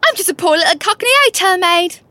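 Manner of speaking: lightly put-on Cockney maid; poor little Cockney chambermaid; Cockney accent. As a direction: plead innocence in a Cockney accent. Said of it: "Anyone can do a Cockney accent".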